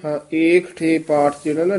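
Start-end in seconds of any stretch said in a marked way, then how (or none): 0.3-1.0 ਏਕਠੇ split lightly between ਕ and ਠ; long first vowel in ਏਕਠੇ, slight break before ਠੇ; said with a dash. Shown as a demonstration. Teacher correcting the reciter, ਏਕਠੇ with a dash. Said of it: "dash ਨਾਲ ਉਚਾਰਨ ਕਰਨਾ".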